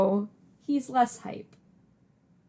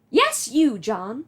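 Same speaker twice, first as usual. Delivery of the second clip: Nana voice; 3 dB louder, slower than usual. Acted. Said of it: "Do you like my Nana voice?".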